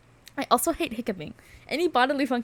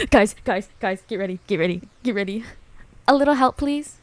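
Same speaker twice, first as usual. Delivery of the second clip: put-on excited girl calling out; 6 dB louder than usual. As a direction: call out to the group eagerly. Reads volleyball girl's call.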